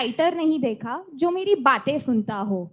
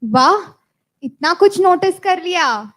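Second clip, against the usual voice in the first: impressed wow; 3 semitones higher, 6 dB louder than usual. Acted. Impressed by waiter.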